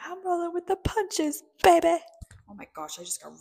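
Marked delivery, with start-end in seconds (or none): 0.0-2.0 high, loud superhero boast; Mister Incredible. Retold or imitated. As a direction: belt it out like a cartoon hero. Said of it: "Mister Incredible said, he was like".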